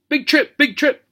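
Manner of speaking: very high parrot squawk; shouting parrot. A narrator's reading. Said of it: "shouted Mister Smithers".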